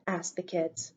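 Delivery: usual speaking voice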